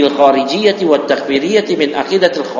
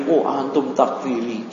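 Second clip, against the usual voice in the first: mock opponent's retort; 3 semitones lower, 7 dB quieter than usual. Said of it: "kata dia".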